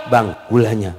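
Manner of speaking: soothing wife. Acted. Wife offering husband the sugar, soothing. Wife gently answers coffee complaint.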